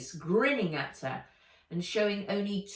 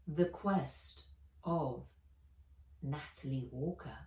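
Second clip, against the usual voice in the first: awed; 3 semitones lower, 5 dB quieter than usual. A narrator's reading. Reading her name in awe.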